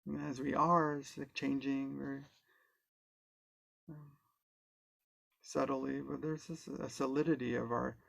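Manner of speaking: calm, unhurried guide with long pauses; guided meditation. Real, not acted. Guide leading an online group into body awareness, calm guided meditation. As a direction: ease them gently through it, leaving space between phrases.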